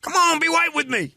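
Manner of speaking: squeaky mock pleading; mock gun guy. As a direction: whine it in a squeaky voice. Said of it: "mock gun guy".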